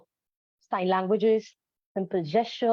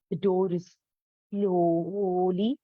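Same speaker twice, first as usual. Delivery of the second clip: mildly drawn-out suspense voice; lightly voiced creaking door line; storyteller voice for a door; 3 semitones lower, much slower than usual. Shown as a demonstration. Teacher shows voice for closing door: mild suspense. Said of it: "we can change the voice for".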